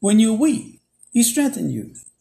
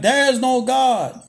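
retold yell; 5 semitones higher, 4 dB louder than usual. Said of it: "he yelled back".

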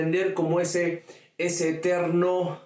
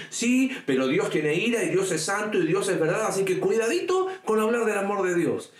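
a raised, scolding warning in mock; pious scold, mocked and raised; 5 semitones higher than usual. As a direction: lecture them, finger wagging, half in jest. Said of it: "lo primero que dicen es que".

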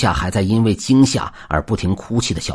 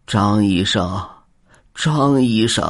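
ghostly calling; slower than usual. Acted. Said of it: "传来了呼喊声".

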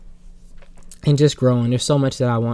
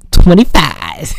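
slow, loud, laughing reveal; laughing punchline; 4 semitones higher, 9 dB louder, slower than usual. Pretend. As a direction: deliver the punchline through a laugh. Hoodie punchline.

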